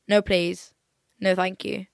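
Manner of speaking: ordinary talk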